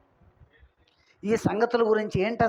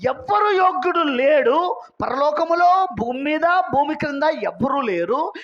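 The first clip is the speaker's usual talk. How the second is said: angel's cry in a raised preaching voice; mild loud proclamation; 5 semitones higher, 3 dB louder than usual. Retold or imitated. Preacher quoting the angel who found none worthy, mildly raised proclamation. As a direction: lightly imitate a proclaiming angel. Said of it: "దేవదూతేమో బిగ్గరగా ప్రచనించాడు".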